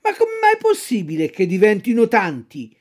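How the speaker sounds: mildly amazed puppet; open-mouthed amazement. Acted. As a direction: ask it gaping. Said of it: "restando a bocca aperta dallo stupore".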